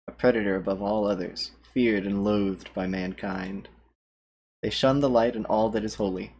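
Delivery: horror trailer voice. Acted. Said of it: "tone down the voices for you".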